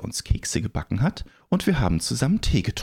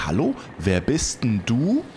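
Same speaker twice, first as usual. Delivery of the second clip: calling out; 3 semitones higher than usual. Acted. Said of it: "rief ich".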